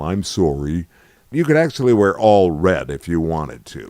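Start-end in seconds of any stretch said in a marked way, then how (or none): 0.0-0.9 put-on light Canadian accent on sorry. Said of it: "with my Canadian accent".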